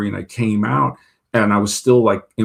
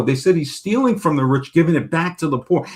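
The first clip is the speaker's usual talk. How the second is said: put-on naive kid; 5 semitones higher than usual. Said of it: "And I was such an imbecile".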